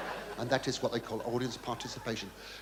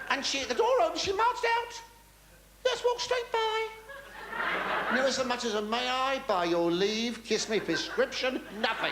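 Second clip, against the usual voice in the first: much higher outraged storytelling; indignant; 9 semitones higher than usual. Retold or imitated. Describing the woman marching past the queue, outraged. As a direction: squeal at her rudeness.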